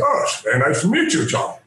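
lightly voiced gracious Patrick Stewart; polite, measured hint of the actor. Patrick Stewart greeting the fan, gracious. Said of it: "he goes".

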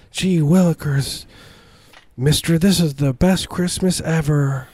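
put-on high, slow gee-whiz kid voice; wholesome 1950s kid. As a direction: play an eager old-timey boy, slow and high.

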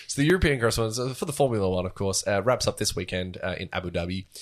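light pan-European reporter voice; pan-European accent. Pretend. Light pan-European accent as the correspondent wraps up the Formula One season. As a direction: report the race like a mock correspondent. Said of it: "pan-European accent".

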